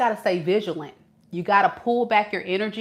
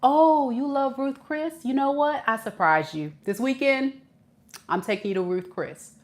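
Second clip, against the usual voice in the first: mock charmer; 4 semitones higher than usual. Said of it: "when they say".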